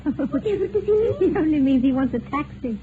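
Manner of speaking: laughing through the words. Real, not acted. Wife explaining the joke while laughing. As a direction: giggle as she explains.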